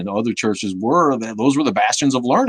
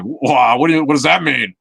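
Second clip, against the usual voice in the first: higher, louder mock objection; taken-aback poker player; 5 semitones higher, 4 dB louder than usual. Imitating a guy at the poker table, taken aback. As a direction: imitate someone startled by the remark. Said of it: "one guy at the table was like".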